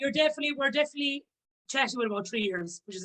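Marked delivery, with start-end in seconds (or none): 0.0-1.2 a laugh running through the words; laughing the line out as she starts again. Real, not acted. Laughing through it to the host. Laughing after her own joke.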